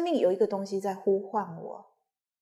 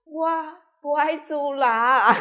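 retold tearful plea; 6 semitones higher, 6 dB louder, slower than usual. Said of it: "然后我就一直哭".

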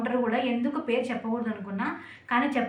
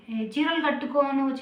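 slow, teasing voice of a commenter drawling ఏ, చీరలు కట్టుకోను; mock commenter quote; 3 semitones higher, slower than usual. Vlogger mimics a viewer's saree comment, slow and teasing. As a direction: stretch ఏ, చీరలు కట్టుకోను slowly like a nosy viewer. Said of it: "అని అయితే comment వచ్చింది".

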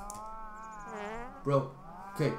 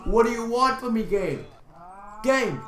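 exasperated cry; 3 semitones higher than usual. Real, not acted. Exasperated shouting at the game.

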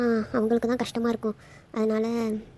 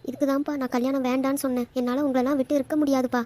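mildly tearful pleading; 3 semitones higher than usual. Acted. Daughter tells father she cannot leave family, mildly tearful. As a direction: plead to father, close to crying. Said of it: "ஏன் இப்படி அழுவுற".

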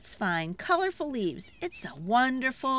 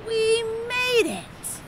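1 high relieved cheer; 12 semitones higher, 3 dB louder, slower than usual. Pretend. Relief after waterfall.

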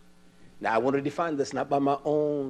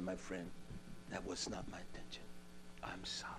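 soft, humble apology, much quieter; mild pleading apology; 8 semitones lower, 23 dB quieter than usual. Retold or imitated. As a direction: plead sorry in a low, quiet voice.

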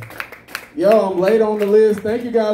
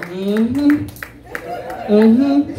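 rising, drawn-out hum in imitation; Stellar; 7 semitones higher than usual. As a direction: mimic a fellow comic's sassy mm-hmm. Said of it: "Stellar came up here and did her thing".

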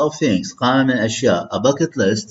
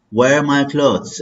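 slow, higher, wear stressed; slow model phrase; 4 semitones higher, much slower than usual. Shown as a demonstration. Teacher drilling daily routine phrases, slow. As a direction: model it slowly for the class. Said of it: "read with me".

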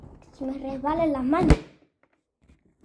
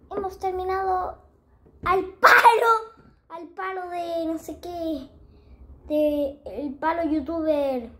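high, playful announcing; silly high voice; 4 semitones higher, 4 dB louder than usual. Pretend. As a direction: pitch it up for fun. (voz aguda y juguetona)

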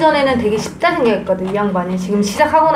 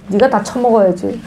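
ordinary delivery

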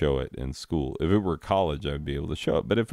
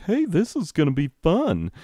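high-pitched mock teacher enthusiasm; over-eager teacher; 11 semitones higher than usual. Teacher pitching a lesson to students, fake perky excitement. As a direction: oversell the fun in a raised, put-on voice. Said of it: "doing that teacher thing".

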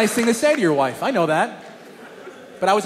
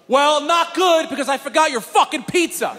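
higher-pitched, exasperated outburst; mock angry yell; 6 semitones higher than usual. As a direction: imitate a fed-up yell. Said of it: "he yelled at me and left".

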